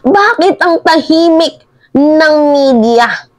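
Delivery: mocking a politician's self-pitying complaint; mock whine. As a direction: whine it like a sulking child. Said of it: "Sabi niya".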